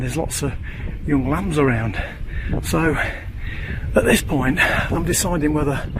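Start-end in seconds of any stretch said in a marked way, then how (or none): 2.6-5.9 puffing from the uphill walk; breathless, catching breath between words. Real, not acted. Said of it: "I'm out of breath".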